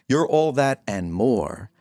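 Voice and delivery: slow down and settle toward baritone. Real, not acted. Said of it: "you went to baritone on that".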